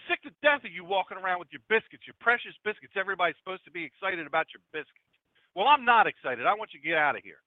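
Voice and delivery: fed-up rant, coming down from a high pitch; angry yelling. Acted. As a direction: tell her off with mild exasperation. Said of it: "yelled at her again".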